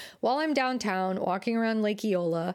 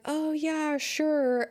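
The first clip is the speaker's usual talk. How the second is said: higher, polite mock agreement; reluctant agreement; 7 semitones higher, much slower than usual. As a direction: give in politely against your will. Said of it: "they'll be like".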